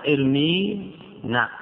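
ارمينا stretched very slowly, every syllable held; slow drawn-out demo. Shown as a demonstration. Teacher repeating the verb slowly for students. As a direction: draw out ارمينا so the ياء is heard.

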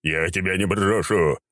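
slow, melodramatic vow; stagy, heartfelt villain wail; wailing necromancer. A narrator's reading. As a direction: cry it out, drawn out and rising high. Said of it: "завопил некромант".

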